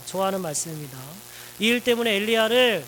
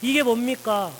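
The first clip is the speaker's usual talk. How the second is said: raised, louder, higher aggrieved protest; complaining to God; 3 semitones higher, 3 dB louder than usual. Acted. Elijah complaining bitterly to God, raised and aggrieved. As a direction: pour out the grievance, pushing harder each line. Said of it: "하나님 앞에 원망을 퍼붓게 되죠".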